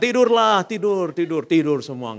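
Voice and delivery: cheerful loud lullaby-like order; 1 loud urging. Retold or imitated. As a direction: tell the group loudly to sleep. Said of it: "saya bilang".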